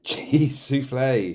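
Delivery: loud, high, slow cry; loud exclamation. Acted. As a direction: belt it out high and drawn out. Climax exclamation in story.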